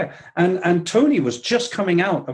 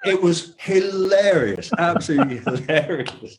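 real laughter breaking into the words; chuckling, slowing down as he laughs; laughing; 3 semitones higher than usual. Real, not acted. Recalling Tony's Cockney joke, laughing.

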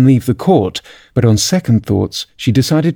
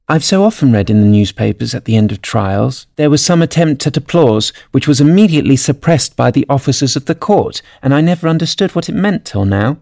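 put-on higher-pitched girl's musing; thoughtful Alice; 4 semitones higher than usual. A narrator's reading. Alice thinks over the court's doings, musing. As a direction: muse to yourself in a lightly raised voice.

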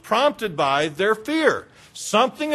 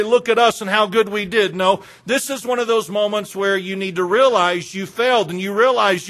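raised, driving chiding; insistent rebuke; 3 semitones higher than usual. Acted. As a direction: chide them in an insistent preaching voice. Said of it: "what Christ was saying is this".

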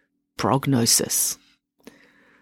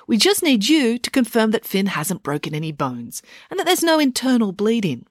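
higher, prim and insistent; Loretta; 5 semitones higher than usual. Acted. Scene: Loretta holding the doctor's hand, insisting politely. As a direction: soothe the doctor while insisting.

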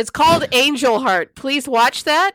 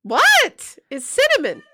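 calling out; 10 semitones higher, slower than usual. Real, not acted. Calling out to wife in other room.

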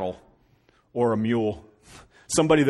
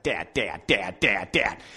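put-on pestering child; 4 dB louder, much slower than usual. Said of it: "so I just hear it all the time".

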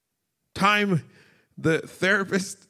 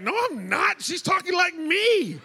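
laughing protest; 10 semitones higher than usual. Retold or imitated.

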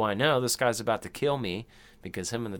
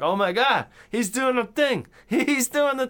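high, louder squealing excitement; giddy fan; 13 semitones higher, 4 dB louder than usual. Retold or imitated. Fan seeing Pennywise do his thing, squealing high and excited. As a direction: gush like a starstruck fan.

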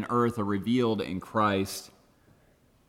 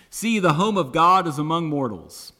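raised, higher proclamation; loud voice; 6 semitones higher, 6 dB louder than usual. A narrator's reading. Voice from the throne to mortals, loud proclamation. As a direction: announce it loudly, as from the throne. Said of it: "I heard a loud voice from the throne".

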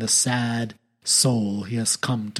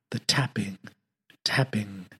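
fading echo; 4 semitones lower, 7 dB quieter than usual. A narrator's reading. Echoing tapping in retelling.

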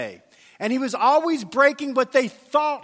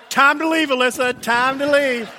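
hasty retreat; 3 semitones higher, 5 dB louder than usual. Retold or imitated. Hurrying away from trouble.

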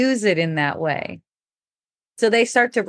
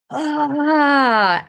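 a short raised mock scream, not full force; demo of a scream; 7 semitones higher than usual. Reliving her scream at the ocean, a short mock yell. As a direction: show the scream she let out at the ocean. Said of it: "I just scream it out".

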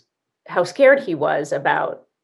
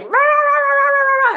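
much higher, louder mock rage chant; angry inner voice; 6 dB louder than usual. Inner voice ranting inside our heads, high mock rage chant. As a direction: squawk it out like a tiny ranting gremlin. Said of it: "one little voice that's like".

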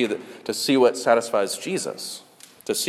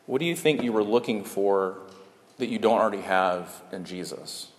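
softly lowered, caring question; gentle question; 3 semitones lower, 4 dB quieter than usual. Retold or imitated. Friend to one confessing a failure, gently retold. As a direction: ask gently, easing down toward the end. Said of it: "in the most gentle way".

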